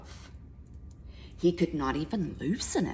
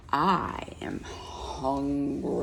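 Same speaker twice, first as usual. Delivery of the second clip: hungry lion; slower than usual. Acted. Lion answers the mouse.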